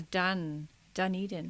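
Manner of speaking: "Dun" short, then "Dunedin" as duh-NEE-din, softly; demonstrated pronunciation. Shown as a demonstration. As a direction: show that "Dunedin" opens like "Dun". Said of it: "Pronounced Dunedin".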